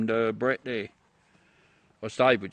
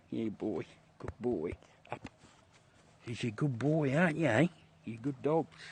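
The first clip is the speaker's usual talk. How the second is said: tender dog talk; 4 dB quieter than usual. Real, not acted. Talking to his dog Nigel.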